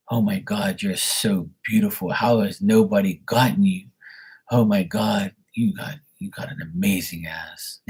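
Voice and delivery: low, softened fawning imitation; mock gushing. Mocking guys who gush over women.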